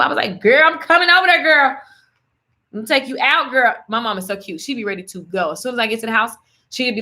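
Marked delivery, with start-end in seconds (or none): 0.4-3.7 excited reply. Retold or imitated. Her eager retold reply.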